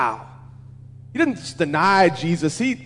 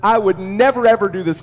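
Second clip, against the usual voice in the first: a louder push on "never, ever"; emphatic denial; 4 dB louder than usual. Acted. Peter vowing loyalty to Jesus, emphatic. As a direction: insist firmly, leaning on "never" and "ever". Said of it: "double negative in its strength".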